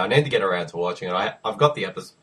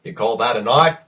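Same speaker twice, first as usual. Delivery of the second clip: knife movie bit. Retold or imitated. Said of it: "doing the knifey spoony joke".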